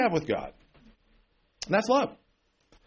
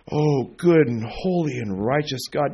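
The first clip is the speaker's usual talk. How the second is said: mock pompous prayer; 3 semitones lower, slower than usual. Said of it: "preachers in their prayer start out".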